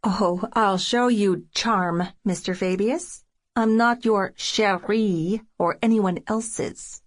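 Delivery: slow, tight words through gritted teeth; through clenched teeth. Acted. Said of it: "I say through clenched teeth".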